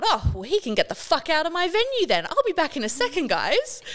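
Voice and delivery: high, singsong service cheer with a giant smile; customer service voice. Retold or imitated. Manager excusing herself to her group, smiling customer service voice. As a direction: swear sweetly in a chirpy customer-service pitch. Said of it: "in my customer service voice with this giant smile".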